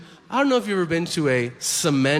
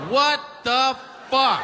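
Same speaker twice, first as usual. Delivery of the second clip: higher-pitched, baffled disbelief; acted shock; 7 semitones higher than usual. Customer to store man after his offer, acted shock. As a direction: react in mock alarm, pitch jumping up.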